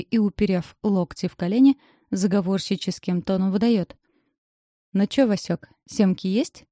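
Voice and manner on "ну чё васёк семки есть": lightly voiced gopnik slang; a hint of a street tough; Russian street thug. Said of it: "закос под гопоту".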